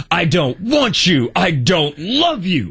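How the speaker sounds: dramatic movie delivery. Retold or imitated. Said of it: "the way he was saying things".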